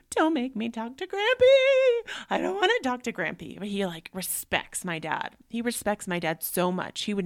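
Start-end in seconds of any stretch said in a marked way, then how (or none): 0.1-3.6 put-on high, pleading child's whine; whiny kid. Mother imitating her son begging not to talk to Grampy, whiny. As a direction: beg like a scared little boy. Mom voicing whining son.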